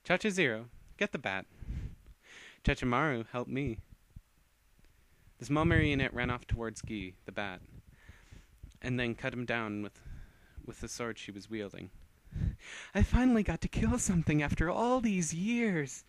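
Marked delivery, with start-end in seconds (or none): 0.0-3.8 crisp, louder commands to servants; commanding orders. Acted. Vampire commands her servants. 12.9-16.0 high, loud, different voice for the doll; creepy gleeful doll; gleeful killer doll. Acted. Doll gleeful about killing.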